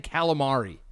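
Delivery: calamari with the first a as in "cat"; Americanized calamari. Shown as a demonstration. Complaining to a friend about the word, Americanized calamari. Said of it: "just sounds so weird".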